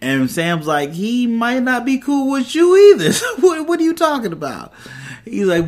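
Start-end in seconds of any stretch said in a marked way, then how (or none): 0.9-4.7 very high, laughing mock disbelief; incredulous comeback. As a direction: squeal the retort through amusement. Acts out Sam's incredulous comeback, laughing.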